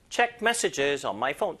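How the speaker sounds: very slow, Check pushed; stress on check. Shown as a demonstration. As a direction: lightly push Check, slowly. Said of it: "책에 힘 살짝 줘도 돼요".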